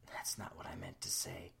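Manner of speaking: flustered whispered correction. Acted. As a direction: mutter it under your breath, embarrassed. Dana flustered after slip.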